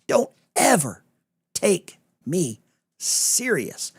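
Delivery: high and drawn out, stretching "take me serious"; slow, playful warning; teasing sarcasm. Shown as a demonstration. Host teasing the chat, slow and high. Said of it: "A lot of people miss the sarcasm".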